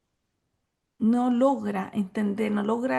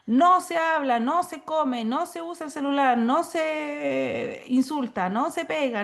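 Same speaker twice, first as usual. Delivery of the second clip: stern rules; 4 semitones higher, slower than usual. Shown as a demonstration. Teacher reciting rules to a child, firm and stern. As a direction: lay down the classroom rules one by one.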